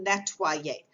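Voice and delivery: nettoyer said the French way, net-wah-yay; nettoyer, French vowels, stress on the last syllable; French word. Shown as a demonstration. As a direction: give nettoyer in clear French. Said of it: "For example".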